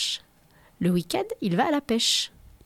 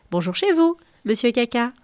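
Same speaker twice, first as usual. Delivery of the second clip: called greeting; 3 semitones higher, 4 dB louder than usual. Acted. Waving passers-by greet him.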